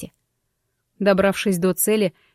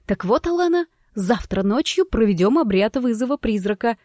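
strict teacher tone. Acted. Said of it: "заявила я строгим учительским тоном".

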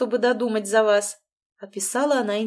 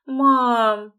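a pleading groan, louder; 3 semitones higher, 7 dB louder than usual. A narrator's reading. Сын стонет, узнав о приезде матери. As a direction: moan the word in dismay. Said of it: "простонал".

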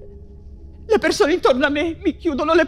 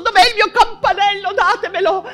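hysterical laughter; 5 semitones higher, 8 dB louder than usual. Acted. Delirious prisoner demanding her luxuries.

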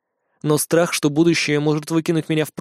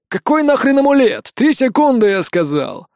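angry; 7 semitones higher, 4 dB louder than usual. A narrator's reading. Cop threatens with a gun.

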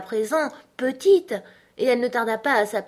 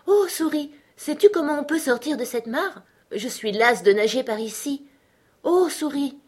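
put-on high, girlish storybook plea; Alice's pleading call; 7 semitones higher than usual. Alice asks the mouse the way out, high polite plea.

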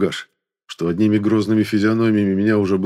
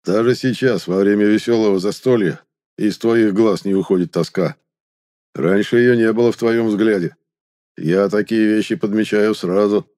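tipsy, slightly slurred speech; a little drunk, tongue stumbling. Acted. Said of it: "немного заплетающимся языком".

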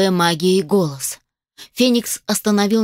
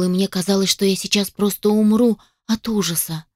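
ordinary delivery, nothing marked

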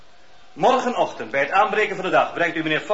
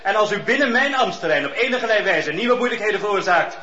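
higher and louder, laying down the law; stern loud warning; 4 semitones higher, 4 dB louder than usual. Acted. Judge orders Fox to leave the district, stern and loud. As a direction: threaten him with jail, leave no room to argue.

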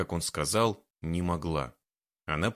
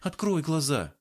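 higher insistent order; demanding; 7 semitones higher than usual. A narrator's reading. Worried girl demands the man open his eyes. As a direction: demand he look at her. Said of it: "потребовала она".

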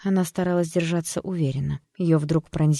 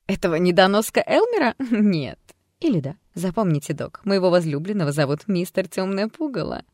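higher, louder playful taunt; carefree, mocking; 4 semitones higher, 4 dB louder than usual. Alter ego taunting the doctor, carefree and mocking. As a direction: toss it off carelessly with a laugh. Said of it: "беспечно отозвалась девушка".

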